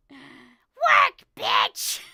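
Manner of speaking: loud shouted workout yell; screaming. Retold or imitated. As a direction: scream it like a drill sergeant. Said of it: "Ziria's just screaming".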